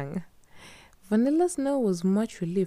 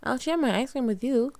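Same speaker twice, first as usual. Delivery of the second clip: smiling; 8 semitones higher than usual. Acted.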